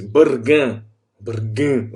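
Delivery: "bargain" said with a local Portuguese sound. Shown as a demonstration. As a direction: give "bargain" a really local, genuine Portuguese ending. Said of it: "have to do that sound to make it sound really local".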